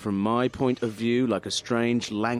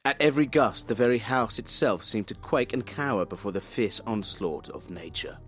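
dramatic reading; 3 dB quieter than usual. Acted. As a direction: sell the stormy scene. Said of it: "you're an actor, so sell these".

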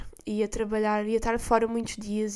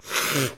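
sniffling; 9 semitones lower than usual. Real, not acted. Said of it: "desculpem estes sons de ranho e saliva".

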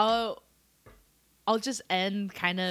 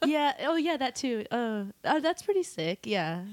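eager agreement; 4 semitones higher than usual. Retold or imitated. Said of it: "tend to be like".

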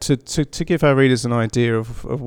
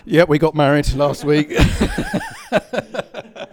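laughing; 6 semitones higher, 4 dB louder, slower than usual. Real, not acted. Joking announcement, laughing.

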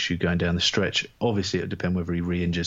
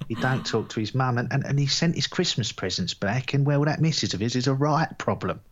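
higher, put-on voice in a bad Wisconsin accent; attempted Wisconsin accent; 5 semitones higher than usual. Podcaster mocking gossip about Rodgers's family, in an attempted Wisconsin accent. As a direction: overdo a badly faked Wisconsin accent. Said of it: "doing my best Wisconsin accent".

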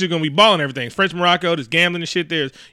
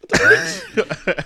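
whispered disbelief; much slower than usual. Real, not acted. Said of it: "incredulous aside".

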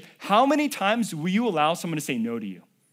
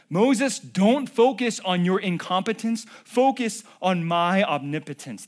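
louder, driving the line home; emphatic repeat; 3 semitones higher, 5 dB louder than usual. Shown as a demonstration. Preacher repeating God's words to the congregation, louder and emphatic. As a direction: say it again with force, hammering it in. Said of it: "He's telling him".

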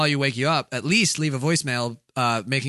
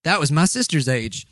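put-on Southern accent. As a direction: read the tale in a mock Southern accent. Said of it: "in a Southern accent".

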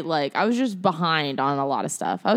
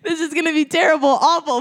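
a loud, high, fast mock-dramatic plea; hammed-up debater doom, loud and high; imitating her partner; 11 semitones higher, 6 dB louder than usual. Grace redoing her partner's speech, mock dramatic. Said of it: "she goes".

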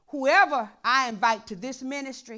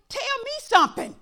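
laughing; 12 semitones higher, 4 dB louder than usual. Acted. Laughing plea to the Lord.

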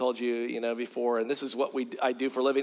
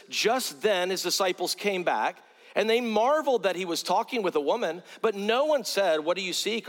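raised, measured Bible reading voice; scripture reading. Acted. Preacher reading scripture to his congregation, raised and measured. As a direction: read the verses out to the flock, a little lifted. Preacher reads John 4 aloud.

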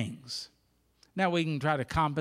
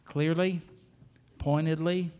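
earnest prayer; 4 dB louder than usual. Acted. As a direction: pray over the congregation with conviction. Pastor leads closing prayer.

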